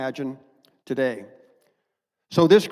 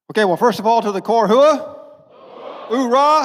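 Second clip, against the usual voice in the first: booming Marine battle cry; rally the troops, full voice; loud gung-ho soldier; 5 semitones higher, 8 dB louder than usual. Real, not acted. Marine colonel rallies the Corps.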